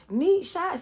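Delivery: very high, loud panicked shout; frantic shout. Retold or imitated. Dwight shouting in shock over the shooting, very high. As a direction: blurt it out in shock. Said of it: "So he was like".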